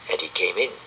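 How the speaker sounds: usual speaking voice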